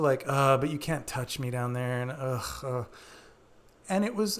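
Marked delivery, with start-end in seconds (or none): 0.3-2.8 heavy, put-off mock refusal; unplayful reluctance. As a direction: say it as a glum brush-off. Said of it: "as opposed to".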